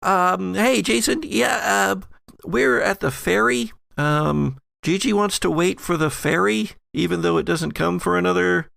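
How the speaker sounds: high-pitched Allison rambling over the phone; Allison's voice. Acted. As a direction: chatter it as Allison, high and casual. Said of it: "And she says".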